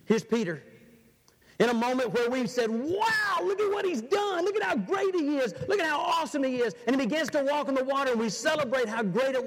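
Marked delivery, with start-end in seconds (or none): 2.7-6.7 much higher, gushing praise; hammed-up crowd acclaim; mock excited cheering. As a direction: play the cheering crowd, getting faster.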